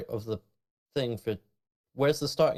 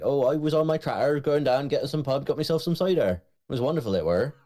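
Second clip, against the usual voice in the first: broad West Country yokel, pitch raised; Somerset accent; 4 semitones higher than usual. Retold or imitated. Somerset man telling friends about his day, in a broad Somerset accent. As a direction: ham up a cheerful cider-drinking Somerset farmer. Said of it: "people who talk like that".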